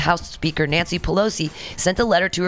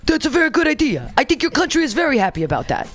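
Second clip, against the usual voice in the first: higher, mock-presidential approval; reading as the president; 8 semitones higher than usual. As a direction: play a pleased president, pitched up. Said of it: "You'll know when it says the president".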